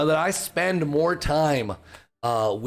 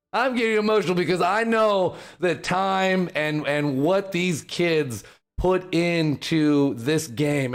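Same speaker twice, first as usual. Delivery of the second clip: emotional; 4 semitones higher than usual. Real, not acted.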